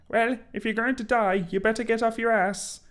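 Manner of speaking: put-on loud, high-pitched boyish voice; high Ron voice. Ron tells Harry to get moving in a high voice. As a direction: push it high like a cheeky teenager.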